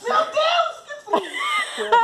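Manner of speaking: cold shock cry. Real, not acted. Cold water shock, high cry.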